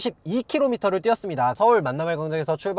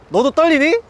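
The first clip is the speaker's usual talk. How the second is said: playful tease; 6 semitones higher, 6 dB louder than usual. Pretend. Teasing viewer during suspense.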